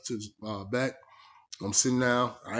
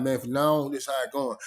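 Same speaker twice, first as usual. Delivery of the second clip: calm. Retold or imitated. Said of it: "And I'm saying it calm".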